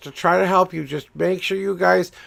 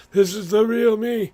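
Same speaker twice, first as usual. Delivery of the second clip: a put-on voice, pitched higher, as a quick demo; changed voice; 5 semitones higher than usual. Shown as a demonstration. Showing viewers he can change his voice, in a higher put-on voice. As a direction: flip into a different voice to show you can. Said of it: "I can change my voice at a will".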